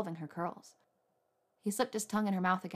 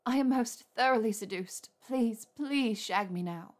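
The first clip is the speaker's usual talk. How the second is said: eager pleading; 3 semitones higher, 4 dB louder, slower than usual. Acted. Hermione pleading breathlessly.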